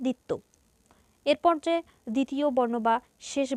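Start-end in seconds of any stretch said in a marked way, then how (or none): 0.1-0.3 extra push on the opening দ of দ্বিত্ব; দ্বিত্ব with a weighted first consonant, no w; extra initial stress. Shown as a demonstration. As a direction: say দ্বিত্ব as "ditto", leaning on the d. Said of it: "অতিরিক্ত ঝোঁক পড়বে".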